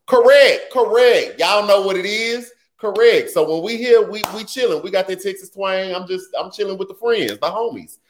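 high, relaxed hanging-with-friends talk; casual chill voice. Pretend. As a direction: loose Texas twang, just chilling. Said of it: "You got the bill collector voice versus that mom's on the phone".

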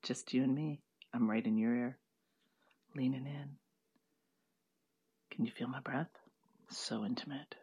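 breathy whisper right in your ear. Pretend. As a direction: lean in close and whisper. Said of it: "we're making this really intimate".

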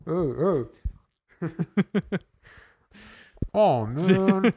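cracking up at the memory; laughing. Real, not acted. Laughing after the story.

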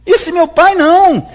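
put-on loud, defiant no from the older son; angry refusal. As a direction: slam the door on it, loud. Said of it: "mas ele fala". (filho mais velho recusando, em voz alta e revoltada)

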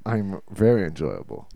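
Tom Hanks impression. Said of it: "I'm just Tom Hanks".

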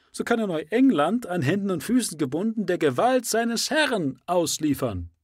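rally the exiles with burning zeal; fiery preacher. Acted. Endicott's fiery speech.

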